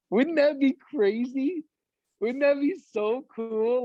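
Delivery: high-pitched, drawn-out dreamy excitement; giddy wondering. Acted. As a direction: savour the thought slowly, giddy and high. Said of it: "giddy, like, almost like you wanna giggle".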